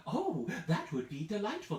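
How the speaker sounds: put-on giggly, excited old lady; delighted giggle. Old lady giggling over making a treat. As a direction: laugh through the delight.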